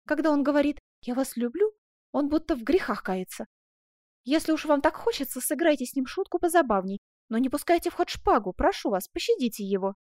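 coy, coaxing heroine; playful girl interceding; lightly voiced pleading young woman. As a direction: gently beg him to go easy. Heroine coaxes for mercy.

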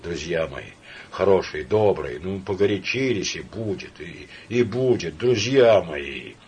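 gentle pleading, slowing at the end; tender, trembling. Acted. Samoylenko calming Laevsky and von Koren, tender. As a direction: soothe them both, voice shaking. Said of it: "ласковым, дрожащим от волнения голосом".

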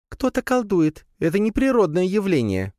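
high squeaky spider voice; squeaked. Acted. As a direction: squeak out the warning. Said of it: "пропищала Лея". (пискливо, высоким голоском)

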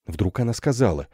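plain reading voice

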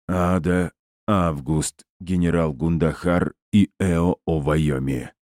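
distorted robot voice. Acted. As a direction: speak like a damaged machine, lightly warped. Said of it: "низким и сильно искажённым голосом повреждённого робота".

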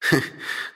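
breathy snicker. Acted. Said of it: "хихикнул брат".

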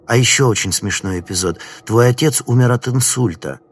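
возбуждённо, почти истерично; злорадное оживление, выше и громче; hysterical glee. Acted. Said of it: "почти истерическое оживление". (почти истерическое оживление)

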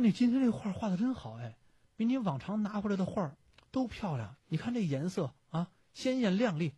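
音调抬高，带着赞叹夸孩子; 模仿妈妈惊喜地夸画; 母亲夸奖. Acted. 母亲夸孩子的画. (高声调赞赏孩子)

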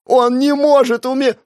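high, loud breaking cry. A narrator's reading. Sister screaming that he can't die. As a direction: start screaming again in denial. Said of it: "снова начинала кричать".

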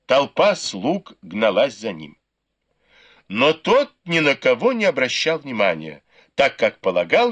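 plain reading voice

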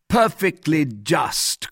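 high, drawn-out exclamation of approval; crying out. A narrator's reading. Two guardsmen applaud the proposed judgment, crying out. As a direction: call out hearty agreement, stretching the words. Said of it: "cried the other two guardsmen".

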